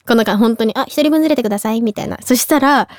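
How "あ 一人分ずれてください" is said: 淡々と事務的に一人分ずれてくださいと言う; 感情を乗せず早めに業務連絡のように; 業務連絡口調. Retold or imitated. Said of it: "もう業務連絡". (事務連絡のように淡々と)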